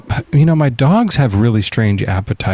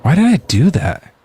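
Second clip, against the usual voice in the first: higher-pitched catchphrase imitation; Steve Urkel; 6 semitones higher than usual. Host echoing the guest's sitcom catchphrase, raised character voice. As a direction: echo the sitcom catchphrase up high. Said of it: "Steve Urkel joke".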